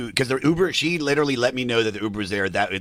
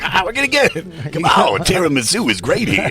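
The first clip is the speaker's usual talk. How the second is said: eager pleading; 7 semitones higher, 6 dB louder than usual. Retold or imitated. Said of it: "and I was like".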